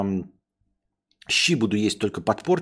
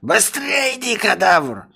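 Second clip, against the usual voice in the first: high, loud urging; impatient master shout; 11 semitones higher, 6 dB louder, slower than usual. Acted. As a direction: hurry the servant up.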